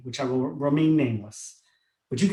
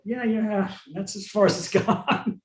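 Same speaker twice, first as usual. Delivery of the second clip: laughing; 5 semitones higher, slower than usual. Retold or imitated. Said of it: "And I go".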